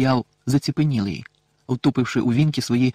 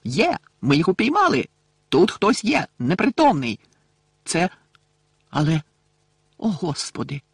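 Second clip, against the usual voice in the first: excited shout; 4 semitones higher than usual. A narrator's reading. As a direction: shout out the catch from the woods. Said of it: "крик містера Дігорі". (радісний крик, що переходить у шок)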